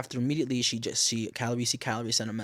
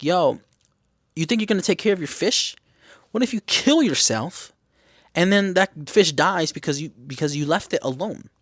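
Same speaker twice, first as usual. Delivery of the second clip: high, loud challenging retort; arguing mom; 6 semitones higher, 5 dB louder than usual. Retold or imitated. Mom challenging her daughter over the fish, argumentative. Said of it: "during the argument, the mom is like".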